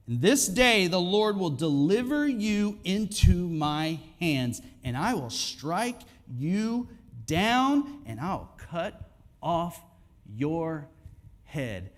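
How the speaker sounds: loud, ringing challenge that slows down hard; bold declaration. Acted. David defying Goliath before the fight, bold and declaring. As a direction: proclaim it, then hammer out each last word slowly.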